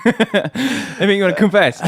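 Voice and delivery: high-pitched teasing through laughter; laughing. Real, not acted. Co-host pressing his friend to confess, laughing. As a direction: ask it while cracking up.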